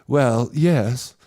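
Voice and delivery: slow, laid-back Cape Town drawl; relaxed Cape Townian. Retold or imitated. Comic playing a Cape Townian giving slow directions. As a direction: take your time, everything flows. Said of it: "Then the Cape Townian goes".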